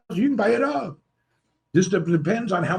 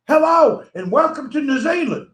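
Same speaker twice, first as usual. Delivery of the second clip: Miss Poppy impression; 5 semitones higher than usual. Mocking the New Zealand live-streamer for the viewers, a higher hammed-up greeting. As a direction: ham up her cheery broadcast welcome. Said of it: "you're like this".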